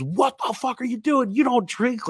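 high-pitched, scandalized mom voice; shocked mom. Retold or imitated. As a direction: imitate a mother aghast at her kid. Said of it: "she was just shocked".

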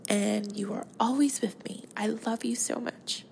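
tender and slightly choked up; getting teary-eyed. Real, not acted. Podcaster to her late cat, getting teary-eyed. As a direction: speak lovingly, close to tears. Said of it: "I'm gonna get teary-eyed here".

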